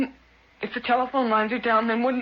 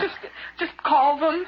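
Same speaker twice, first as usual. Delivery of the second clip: urgent plea; 5 semitones higher, slower than usual. Acted. Wife urging husband, scared.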